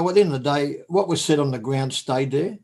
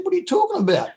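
surprised; faster than usual. Retold or imitated. Confused question.

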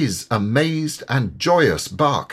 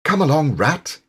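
Mole calls, higher and louder; calling out; 6 semitones higher, 3 dB louder than usual. A narrator's reading. Mole calls Rat away from the island, louder. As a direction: call across to Rat, urging him on. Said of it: "called the Mole".

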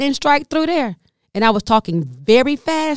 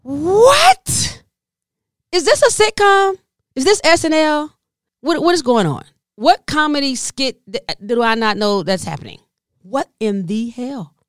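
1 stunned disbelief; 4 semitones higher than usual. Real, not acted. Comedian stunned the valet just let her mother go. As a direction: react as if it's a sitcom.

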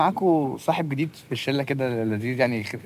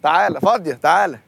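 calling out; 6 semitones higher, 7 dB louder than usual. Acted. Eagerly guiding the car in.

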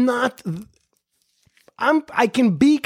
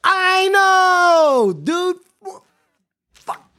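higher, louder exasperated cry; mock outburst; 9 semitones higher, 4 dB louder, much slower than usual. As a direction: blurt it out in shared frustration. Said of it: "And I said".

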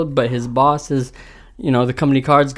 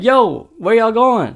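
drawn-out, higher-pitched mock call; stretched call to people walking off; calling from behind; 6 semitones higher, slower than usual. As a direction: imitate someone calling after you, slowly. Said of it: "I hear them in the background".

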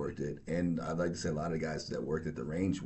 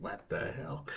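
whispered and much softer, dismissive; whispered aside; 5 dB quieter than usual. Retold or imitated. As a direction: mutter it under the breath. Supervisor's retort continues.

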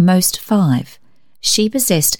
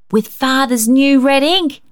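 put-on high, eager child's exclamation; exclaiming; 7 semitones higher than usual. A narrator's reading. Rhonda tempting Cecil with the ink, high excited exclaim. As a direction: sell the idea with glee. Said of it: "she exclaimed".

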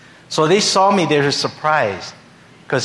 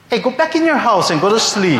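put-on boyfriend shooing; 8 semitones higher, 4 dB louder than usual. Boyfriend shoos the speaker.

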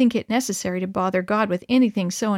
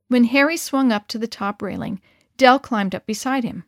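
ordinary delivery, nothing marked

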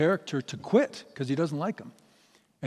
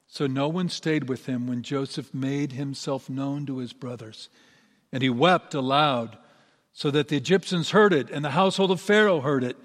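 measured, solemn Bible reading to a congregation; scripture reading. A narrator's reading. Pastor reads Genesis to the congregation, solemn and measured.

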